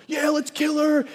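high, eager mob shout; mob cry. Retold or imitated. The Pharisees' mob calling to stone her, high mock shout. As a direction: egg on the crowd.

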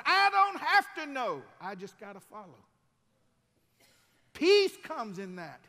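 loud and high, stretched out; full-force preaching. Acted. Preacher lifting up Isaac and the church, loud and high. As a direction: shout the hope to the church.

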